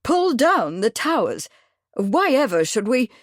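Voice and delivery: stunned echo again; astonished repeat. Acted. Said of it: "Bradford was astonished".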